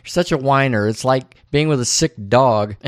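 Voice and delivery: wife berating Charlie, half-acted; mock nagging rant. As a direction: rattle off her complaints. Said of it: "And Audrey's like".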